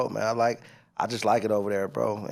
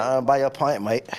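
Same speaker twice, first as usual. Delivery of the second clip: put-on Irish accent. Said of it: "that's your best Irish accent?".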